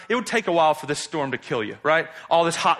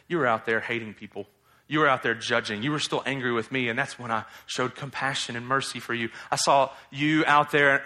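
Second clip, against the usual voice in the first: gentle voice of God; 5 semitones lower, 3 dB quieter than usual. Acted. Voicing God speaking to Jonah.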